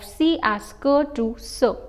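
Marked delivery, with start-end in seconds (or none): 0.7-1.0 "que" with a k sound; hard c. Shown as a demonstration. Teacher showing the wrong cédille reading, "que" with hard k. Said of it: "changes the pronunciation of". 1.4-1.8 "ce" with an s sound; soft c. Shown as a demonstration. Teacher showing how cédille reads, "ce" with soft s sound. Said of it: "changes the pronunciation of".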